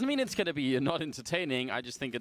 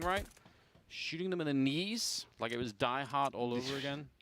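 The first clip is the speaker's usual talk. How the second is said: esports caster; 3 dB quieter than usual. Acted. Play-by-play commentary.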